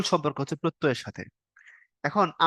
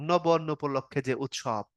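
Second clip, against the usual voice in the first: slow explaining; 3 semitones lower, slower than usual. Shown as a demonstration. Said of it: "অর্থাৎ".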